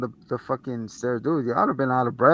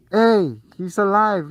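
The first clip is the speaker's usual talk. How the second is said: put-on urgent kid; 7 semitones higher, 5 dB louder, slower than usual. Boy tells the cop.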